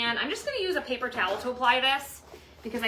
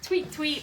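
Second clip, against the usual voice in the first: bird tweet imitation; 5 semitones higher than usual. Shown as a demonstration. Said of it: "asked for bird noise".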